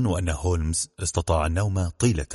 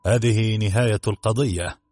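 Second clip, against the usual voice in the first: smug; 3 semitones higher, slower than usual. Acted. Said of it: "قال ليستريد بغرور".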